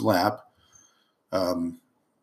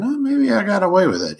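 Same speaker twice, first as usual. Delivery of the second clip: hopeful inner thought; 11 semitones higher, 3 dB louder than usual. Retold or imitated. Inner thought after running light.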